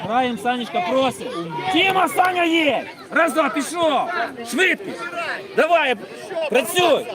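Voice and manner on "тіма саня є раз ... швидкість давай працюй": yelling from the sidelines. Real, not acted. Coach yelling during match.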